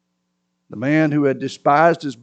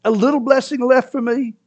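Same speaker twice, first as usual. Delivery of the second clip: high pleading question; high begging son; 9 semitones higher than usual. A narrator's reading. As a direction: plead for something left. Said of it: "Esau has begged his father".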